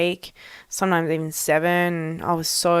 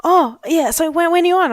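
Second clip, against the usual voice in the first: casual coach; 9 semitones higher, 5 dB louder than usual. Retold or imitated. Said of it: "my coach was just like".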